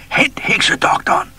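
high, loud, breathless shriek; panicked scream. A narrator's reading. Frightened chief screams for the witch doctor. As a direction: cry out in panic for help. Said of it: "skreg høvdingen".

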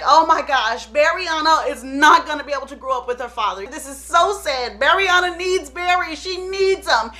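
imitating an upset mother; mock tearful plea. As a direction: plead for your child, hammed-up. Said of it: "she takes all these tears".

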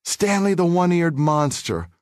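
slow, high mock jeer; bully yelling back from thirty yards, mild mock yell; taunting yell. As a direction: drag the taunt out from afar. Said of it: "turned back and yelled".

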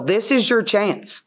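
retold blunt huddle challenge; coach's huddle talk. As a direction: lay down a challenge to your team. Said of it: "I tell them in the huddle".

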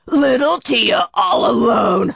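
lightly shouted villain taunt; gloating villain. Acted. Kunatos finds Tia all alone, gloating. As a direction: gloat over helpless prey.

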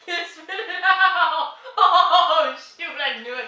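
laughing. Real, not acted. Laughing at friend's reaction.

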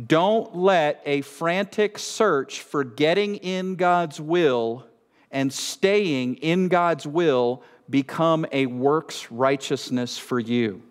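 slow, deliberate warning; slow reading. Real, not acted. Preacher reading a warning to the congregation, slow reading. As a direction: read it out slowly, weighing each phrase. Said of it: "I wanna read this slowly".

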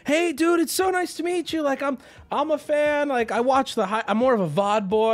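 들뜬 팬처럼 한층 높게; excited fan guy. Retold or imitated. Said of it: "And he's like".

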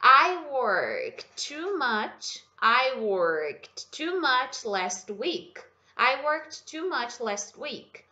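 very slow, carefully articulated English; slow model sentence. Shown as a demonstration. Teacher reading the example sentence slowly to students. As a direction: spell each word out slowly for the learner. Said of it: "aqui eu trouxe a frase pra você".

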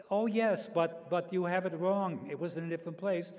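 imitating a German mother correcting her son; mother's heavy German accent. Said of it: "in her heavy German accent".

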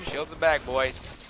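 a light Boston American twang on the line; American accent. Shown as a demonstration. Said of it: "You guys want my American accent?".

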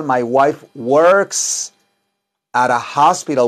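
very slow teacher demo; slow model sentence. Shown as a demonstration. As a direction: say "my wife works at a hospital" slowly, word by word. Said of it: "mi esposa trabaja en un hospital". (despacio, como maestra que modela)

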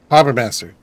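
"Harbor Master" quick and natural, the r softened Boston style; believable Boston accent. Shown as a demonstration. Boston gamer shows the real local Boston accent. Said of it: "more of a Boston accent, a believable one".

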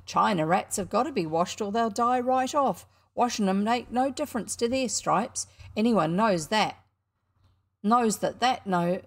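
cocky showman standing his ground; indignant boy showman. Acted. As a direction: insist like a boy caught out. Showman defending his rat.

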